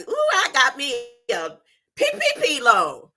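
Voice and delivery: mocking a giddy servant, a touch put-on. Preacher mocking happy servants, lightly put-on giddy voice. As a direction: gloat like a servant handed free money. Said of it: "they was all happy".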